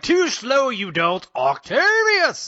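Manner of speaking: high drawn-out shout of the name; dramatic villain reveal. Retold or imitated. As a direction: belt the name like a stage reveal. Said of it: "he's like".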